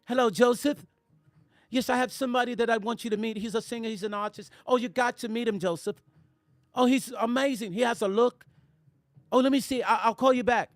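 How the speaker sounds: imitated British woman on a call; British accent. Woman recommending the singer to Joseph by phone, mock British accent. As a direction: gush politely in a put-on British accent. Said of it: "she had a British accent".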